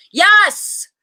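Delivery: a high, loud shouted yes. A narrator's reading. Girl shouting yes to the teacher, high and loud. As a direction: belt out the yes. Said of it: "I shouted".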